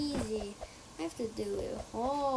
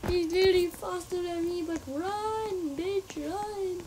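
frantic urging; 6 semitones higher, 5 dB louder than usual. Real, not acted. Urging herself to flee.

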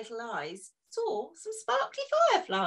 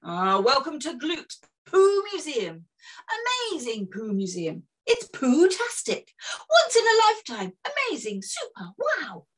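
lightly voiced showman, louder and fast on the boasts; showman tour guide; 3 dB louder than usual. Hector welcoming Bob to his museum, lightly voiced showman. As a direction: sell the museum like a fairground barker.

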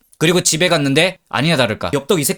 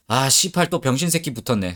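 fed-up grumble; 5 dB quieter than usual. Retold or imitated. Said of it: "아, 여자 또 한숨 쉬어".

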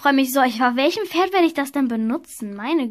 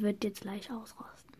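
soft whisper aside to the camera; 6 semitones lower, 18 dB quieter than usual. Real, not acted. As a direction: whisper it so she can't hear. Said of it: "Was hast du gesagt, Papa?". (geflüsterte Bemerkung des Vaters)

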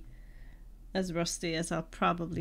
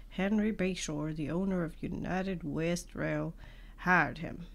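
put-on southern accent. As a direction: read it like a Western, light southern accent. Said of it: "why I'm talking like that".

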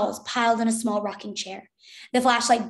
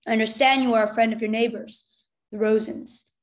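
mildly angry, firm statement; a touch of anger, pressing; understated soldier's anger; 3 dB louder than usual. A narrator's reading. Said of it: "the soldier said angrily".

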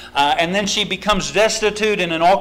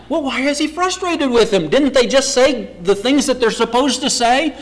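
ordinary talk, nothing marked

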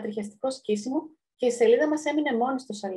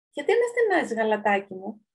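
loud question. Acted. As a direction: ask it out loud, mildly acted. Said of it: "ρώτησε δυνατά ο χυμός". (ελαφρώς δυνατή ερώτηση)

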